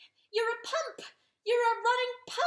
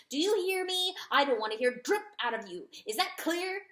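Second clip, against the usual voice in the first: loud, raised urgent tirade; fierce rooster rant; 4 semitones higher, 6 dB louder than usual. A narrator's reading. Rooster warning the weeping dog of war. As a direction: hammer the warning home.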